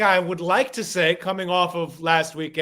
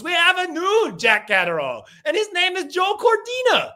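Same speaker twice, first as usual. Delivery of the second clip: a hint of a ring announcer, higher on the name; ring announcer call; 11 semitones higher, 3 dB louder than usual. Podcaster announcing the next Jack Catterall to cohost, lightly hammed announcer voice. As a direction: bring it like a ring intro, peaking on the name. Repeats announcer intro joke.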